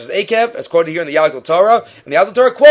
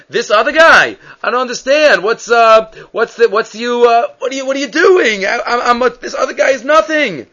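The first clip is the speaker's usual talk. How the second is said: higher-pitched, exasperated mimicry; indignant protest; 5 semitones higher than usual. Gabbai throwing the man's outburst back at him, indignant mimicry. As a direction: mimic a worked-up man, sputtering in disbelief.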